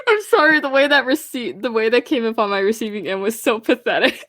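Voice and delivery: laughing through it; cracking up mid-sentence; giggly amused comment. Real, not acted. Laughing at the scream.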